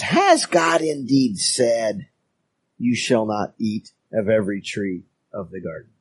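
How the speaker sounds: a hint of a sneaky snake asking; weaselly whiny serpent. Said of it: "a real weaselly, whiny tone".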